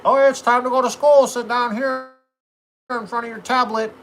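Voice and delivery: high, sing-song voice of a teacher; mocking school voice. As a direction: parody the school's chirpy instructions.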